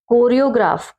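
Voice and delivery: कोरियोग्राफ opening on plain k plus o; silent h. Shown as a demonstration. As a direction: leave the h out of कोरियोग्राफ. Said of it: "एच का sound हमने नहीं दिया". (ह चुप रखकर कोरियोग्राफ)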